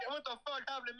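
mock voice. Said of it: "this random fucking black guy voice".

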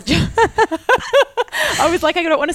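laughing through the words; can't stop laughing mid-sentence; giggling through a funny name. Real, not acted. Laughing while telling friend story.

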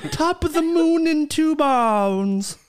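high, slow garbled Irish drawl; Irish accent as if having a stroke; garbled mock Irish. Co-host mocks her on-air flub, high garbled Irish. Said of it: "first on-air stroke in podcast history".

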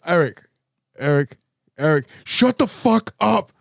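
hammed-up scolding of a sibling on the phone; over the phone, scolding his brother about the dog, mock angry; mock angry phone rant. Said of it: "and I was like".

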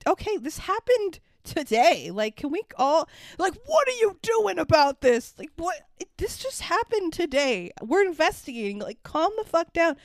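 worked-up pleading for calm; exasperated reaction. Retold or imitated. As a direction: protest at an unreasonable crowd. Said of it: "they're, like, screaming at him".

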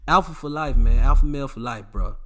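loud slogan chant; loud sign-off slogan; rallying shout. Real, not acted. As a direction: pump up the fellas.

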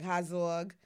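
Bronx accent on Hazog, vowel drawn out. Shown as a demonstration. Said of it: "That's how I say it".

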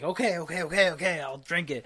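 softened imitation of a nervous worker; mock shaky nerves. Workers pressured by dad to drink, mock nervous. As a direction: repeat it hurriedly like you're caving in. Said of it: "like, five dudes shaking".

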